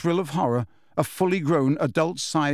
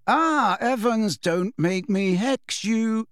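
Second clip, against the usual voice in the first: higher-pitched earnest plea; 9 semitones higher, slower than usual. A narrator's reading. James pleading with Lily, earnest. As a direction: plead earnestly, drawing out the end. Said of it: "said James earnestly".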